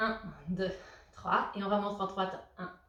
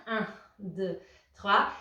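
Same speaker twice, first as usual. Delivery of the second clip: called-out count; 2 semitones lower, 4 dB louder, much slower than usual. Real, not acted. Coach counting a held squat.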